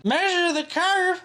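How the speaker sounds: high, drawn-out mock voice; slow, high-pitched taunt; mocking commenter. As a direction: read it as a jeering commenter. Mock reading of troll comment.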